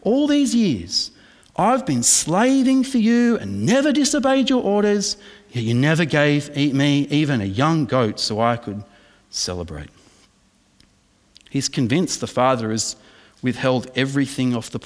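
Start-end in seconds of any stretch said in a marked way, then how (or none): 0.0-9.9 a pointed, heated version of the son's grievance; emphatic resentful complaint. Retold or imitated. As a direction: press every grievance, leaning on "never". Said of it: "See verse twenty-nine".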